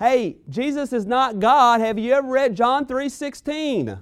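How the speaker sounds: put-on high, drawn-out yell, word by word. Retelling what a driver yelled from the next car: retelling a yell. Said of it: "yells to me and says".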